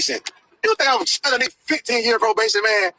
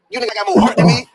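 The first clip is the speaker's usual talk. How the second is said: much higher, much louder jab at rivals; loud outburst; 9 semitones higher, 5 dB louder than usual. Real, not acted. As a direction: throw the line out as a loud call-out. Ranting at rivals on live.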